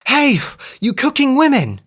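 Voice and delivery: high, loud call. A narrator's reading. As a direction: shout across to the women. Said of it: "she cried".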